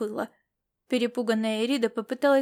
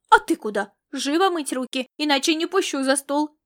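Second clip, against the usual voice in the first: put-on raised scolding to a boy; mother scolding boy before dinner, raised voice; scolding shout; 3 semitones higher, 4 dB louder than usual. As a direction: bark the order to wash hands. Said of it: "прикрикнула она на мальчика".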